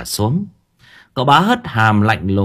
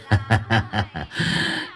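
scornful chuckle; 7 dB quieter than usual. A narrator's reading. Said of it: "rồi cười".

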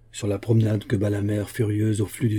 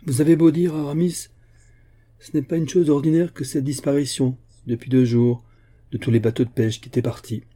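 retake, higher and louder, bluff giant insisting; Porthos; 3 semitones higher, 3 dB louder than usual. Acted. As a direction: Porthos pressing his point, raised pitch.

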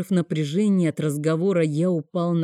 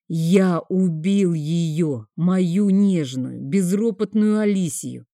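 choked sobbing; slower than usual. Acted. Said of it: "сдавленные рыдания".

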